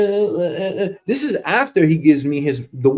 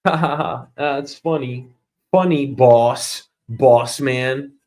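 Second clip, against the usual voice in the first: fake laugh; 3 semitones lower, slower than usual. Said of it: "like a fake laugh?".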